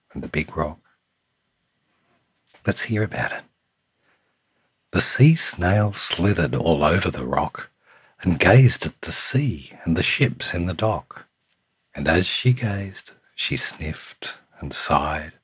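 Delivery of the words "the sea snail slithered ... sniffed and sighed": lilting storytime read with punched key words; picture book narration. A narrator's reading. Reading a picture book to Samuel, lilting storytime voice. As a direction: read it to a small child, savouring the rhyme.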